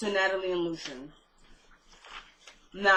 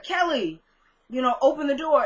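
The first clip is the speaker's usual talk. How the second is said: raised, urgent mock plea; retold scared; 4 semitones higher, 4 dB louder than usual. Scared woman banging on Kelly's door to get in, scared. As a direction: call through a door in lightly acted fear. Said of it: "Like, she's scared".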